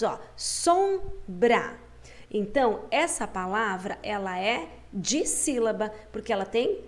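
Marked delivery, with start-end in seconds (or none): 0.4-1.8 "Sombra" in two separate beats, pausing between them; "Sombra" divided clearly into two parts; split into syllables. Shown as a demonstration. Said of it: "dividir ela em duas partes".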